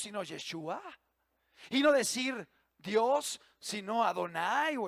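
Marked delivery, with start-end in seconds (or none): 1.7-3.4 "no" drawn out slowly with a rise; stress on no. Acted. Preacher listing forbidden words, stressing "no" slowly. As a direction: lean on "no", slow and rising. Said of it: "preacher stressing no".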